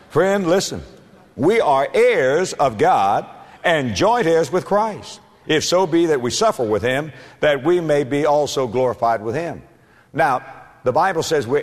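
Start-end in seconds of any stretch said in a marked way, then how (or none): 0.1-9.6 raised pitch, slow scripture proclamation; deliberate, declaring pulpit voice; emphatic preaching. Real, not acted. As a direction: press each phrase on the listener.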